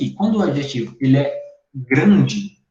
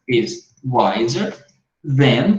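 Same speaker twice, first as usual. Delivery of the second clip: slow model sentence; 2 semitones lower, much slower than usual. Shown as a demonstration. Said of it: "que essa palavra than".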